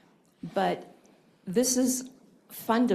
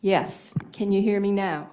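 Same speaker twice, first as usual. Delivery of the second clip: a bit louder, for a listener straining to hear; speaking up; 4 dB louder than usual. Real, not acted. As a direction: raise your voice so they can hear. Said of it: "Can you speak up a little bit".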